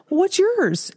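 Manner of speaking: high, pointed question; mock-sharp high demand; challenging. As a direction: demand to know his. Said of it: "She's like".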